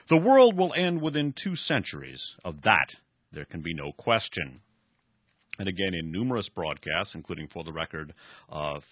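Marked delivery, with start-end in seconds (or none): 0.1-4.6 lightly voiced cynical old industrialist; old man Esau. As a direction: let the old man sneer his history lesson. Esau's prophecy.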